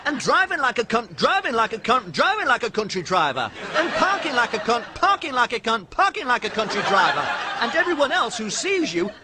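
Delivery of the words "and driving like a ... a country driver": high, loud stuck-record stutter; Stevie's stammer turning rude. Acted. Stuttered rant.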